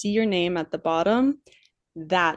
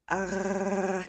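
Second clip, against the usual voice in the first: throaty gargling rasp; gargled French R; 7 dB quieter than usual. Shown as a demonstration. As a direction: gargle it like mouthwash. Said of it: "Imagine that you're gargling mouthwash".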